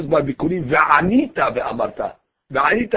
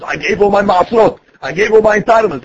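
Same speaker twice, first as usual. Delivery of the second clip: mock boast, raised and a bit louder; 3 semitones higher, 5 dB louder than usual. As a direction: proclaim it as if showing off. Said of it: "don't say it so loud".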